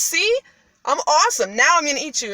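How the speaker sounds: high, loud, triumphant brag; playfully acted gloating; boasting ogre. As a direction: show off proudly as the ogre. Retold ogre shows off to cat.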